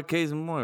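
"case in point" slurred into one word; run-together, mumbled phrase. Shown as a demonstration. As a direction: swallow the middle of "case in point" to an N. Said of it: "You mumble it".

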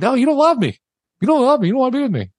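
high wailing you don't love me; upset accusation. Retold or imitated. Drunk husband accusing his wife who comforts him, high and wailing. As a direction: plead it like a hurt drunk. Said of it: "being obstinate 'cause I'm upset".

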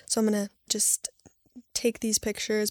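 soft whispered inner thought; whispered aside. Retold or imitated. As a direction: whisper it to yourself. Retold thought, private aside.

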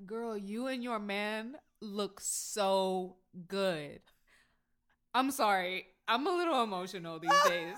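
teasing mock of an emotional friend, gushing slowly then apologising; imitating tearful warning. Friend imitating her friend's crying warnings, mock-emotional. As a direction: play someone getting choked up over a compliment. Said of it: "I've been around you when you've done warnings".

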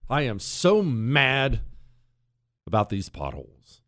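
clueless grumble after a crash; mock complaint. Drunk driver blaming potholes, mock clueless, slow and sinking. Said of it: "I said to myself".

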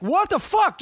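high, startled what the fuck; retelling his shock at seeing bats; shocked outburst. Retold or imitated. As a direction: squeal it in disbelief.

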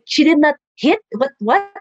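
imitating a baffled spectator; mild mock bewilderment, questioning; confused mom. Mom puzzled by a win without hitting, confused. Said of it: "So confused".

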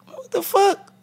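retold reaction to hearing his friend was killed; shocked disbelief. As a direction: blurt it out in stunned shock. Retelling news friend was killed.

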